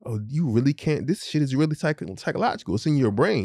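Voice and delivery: retold dad easing off, voice lifted; gentle realization. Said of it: "I can't give it a tough love".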